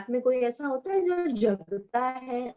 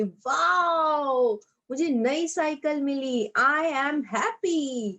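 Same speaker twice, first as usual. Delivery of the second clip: happy voice; 2 semitones higher, much slower than usual. Shown as a demonstration. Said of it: "हमारी इसी तरह से आवाज निकलती".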